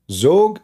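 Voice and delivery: Zog said the Egyptian way with a hard g; Egyptian pronunciation. Shown as a demonstration. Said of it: "this is in the Egyptian accent".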